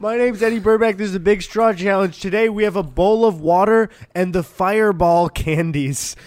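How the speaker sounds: mock YouTuber intro. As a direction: open like a cheesy challenge video.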